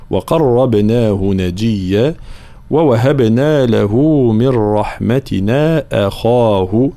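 slow, drawn-out tajweed recitation; teacher's model recitation; Quranic recitation. Shown as a demonstration. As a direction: recite measuredly, holding the long vowels.

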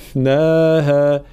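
slow chanted فقذفناها with the f let run; flowing fa. Shown as a demonstration. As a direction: let breath flow on the f of فقذفناها. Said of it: "جريان الصوت حال سكون الحرف". (فقذفناها برخاوة الفاء)

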